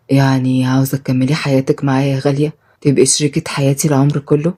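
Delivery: lightly voiced stern man gone gentle; Shaheen, low tender man. Shaheen reassuring his new wife, low and gentle.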